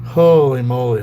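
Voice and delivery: Holy moly burst out loud; Holy moly, loud then dropping off; loud exclamation. Real, not acted. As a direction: blurt the first holy moly out. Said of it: "exclaiming after story".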